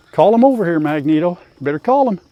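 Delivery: high, loud urging. Real, not acted. Farmer urging Magneto to round up the pigs, high and loud. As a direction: egg the dog on, high and loud.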